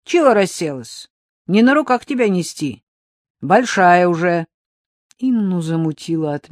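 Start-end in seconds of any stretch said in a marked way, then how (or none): 0.1-4.5 snapping nurse. Acted. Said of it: "прикрикнула на Ксюшу".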